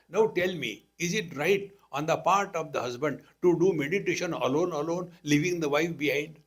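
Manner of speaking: loud aggrieved wife pleading her case; complaining wife. Retold or imitated. Wife complains loudly to the swami about her husband. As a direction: press the swami hard, loud and indignant.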